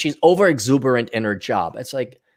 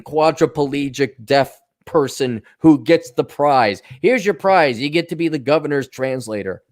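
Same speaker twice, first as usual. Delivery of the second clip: sarcastic mock praise. Mocking the governor's sign language translator, sarcastic. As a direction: hand her the prize with heavy sarcasm.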